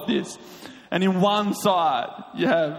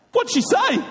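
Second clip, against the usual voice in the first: very high acted question; puzzled asking. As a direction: ask it baffled, voice shooting up. Acts out puzzled Jemima asking.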